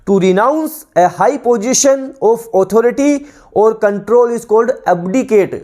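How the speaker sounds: slow, deliberate reading of a definition for students to copy; measured classroom dictation, every word spaced; dictation pace. Shown as a demonstration. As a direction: read it out word by word like a teacher dictating.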